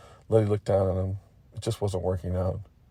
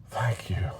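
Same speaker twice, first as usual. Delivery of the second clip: soft, relieved whisper; whispered thanks; 6 dB quieter than usual. Acted. Voice restored, character thanks.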